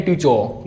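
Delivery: "टीचर" said as "टीचो"; "टीचर" ending on an open vowel, R hidden; barely-there R. Shown as a demonstration. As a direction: let the final R of "टीचर" vanish. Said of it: "पता ही नहीं चलता आर बोला है".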